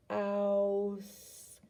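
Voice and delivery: very slow, stretched out "House"; over enunciating. Shown as a demonstration. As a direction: stretch "House" slowly, sound by sound. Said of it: "I say it slowly".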